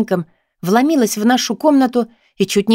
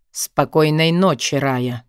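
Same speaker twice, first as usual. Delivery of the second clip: put-on boyfriend; 5 semitones lower, slower than usual. A narrator's reading. Boyfriend voiced low.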